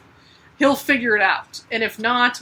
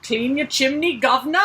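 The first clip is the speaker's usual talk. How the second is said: hammed-up Cockney chimney sweep, slightly higher; bad Cockney accent; 3 semitones higher than usual. Host mocking the sooty heroine as a chimney sweep, bad Cockney accent. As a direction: put on a terrible Cockney accent. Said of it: "That's my terrible accent".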